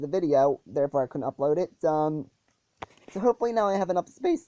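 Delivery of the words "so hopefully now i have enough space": real voice crack on "space". Real, not acted. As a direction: let the voice jump up and crack briefly on "space". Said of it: "Sorry for the voice crack there".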